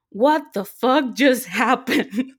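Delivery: slow, laughing retold disbelief. Fan reliving meeting her idols, laughing in disbelief. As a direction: blurt it out through a laugh, stunned. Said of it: "the first thing that came out of me was".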